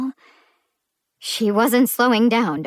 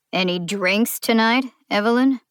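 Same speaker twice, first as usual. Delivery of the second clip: accusing question; 3 semitones higher, 3 dB louder than usual. Acted. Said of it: "sounded like an accusation".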